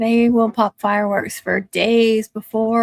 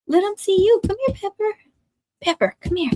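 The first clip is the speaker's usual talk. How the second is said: pet voice; 9 semitones higher, faster than usual. Real, not acted. Calling dog to the camera.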